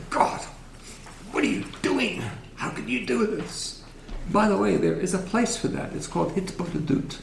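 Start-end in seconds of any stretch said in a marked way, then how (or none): 0.1-3.8 mock protest, pitched up; forceful complaint to God. Shown as a demonstration. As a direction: plead upward in demonstrative exasperation. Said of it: "do not say this forcefully".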